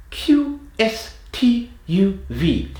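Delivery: high, cliché British letters; stereotypical British accent. Shown as a demonstration. Accent coach demonstrates letters forward in the mouth, stereotypical British accent. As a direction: spit each letter out in exaggerated British. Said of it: "do these letters in a British accent".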